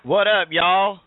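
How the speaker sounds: loud, high redneck drawl greeting; full redneck. Pretend. Co-host greeting the show in a hammed-up redneck accent. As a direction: ham up a Southern redneck hello. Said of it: "I'm going full redneck".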